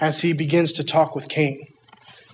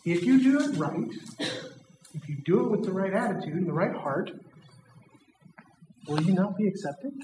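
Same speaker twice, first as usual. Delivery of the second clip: calm coaxing. Acted. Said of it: "He's like".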